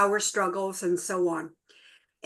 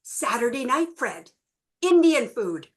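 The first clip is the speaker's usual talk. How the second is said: eager, lilting "Oh, Saturday night, Fred, Indian food"; rising hopeful offer to her husband; bright suggestion; 3 semitones higher, 4 dB louder than usual. Retold or imitated. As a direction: pitch it up like a happy idea. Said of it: "she turns to Fred and says".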